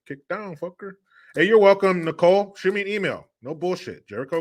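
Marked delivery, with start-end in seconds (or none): 0.1-0.9 troll taunt. Retold or imitated. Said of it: "That's what the trolls would say".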